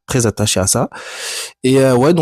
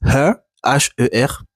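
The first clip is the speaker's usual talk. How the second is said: English accent; slower than usual. Shown as a demonstration. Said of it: "pardonnez mon accent anglais".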